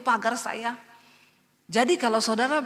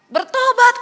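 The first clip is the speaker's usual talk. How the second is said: a very loud, high cry of repent; commanding shout; 14 semitones higher, 12 dB louder than usual. Retold or imitated. God orders her to repent, a loud high shout. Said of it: "Tuhan bilang".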